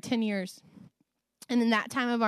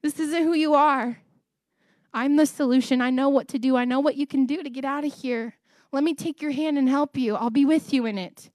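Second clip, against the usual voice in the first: voice of God; 4 semitones higher than usual. Retold or imitated. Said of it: "He gets in there and says".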